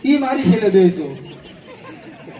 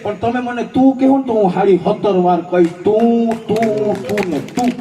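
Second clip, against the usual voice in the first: defiant verse. Acted. Verse continues, punchy repeats.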